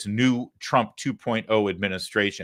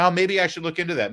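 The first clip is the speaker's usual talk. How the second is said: mock viewer musing; 7 semitones higher, faster than usual. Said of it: "And you've been thinking".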